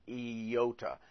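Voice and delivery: iota said slowly, ee-yoh-tuh; slowed down. Shown as a demonstration. Teacher repeats slow iota for students. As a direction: take iota slowly, syllable by syllable. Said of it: "I slowed it down".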